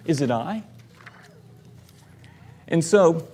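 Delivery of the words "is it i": softer, questioning; hushed, doubtful question; self-doubt. Retold or imitated. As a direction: ask it quietly, doubting yourself. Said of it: "covering his self-doubt".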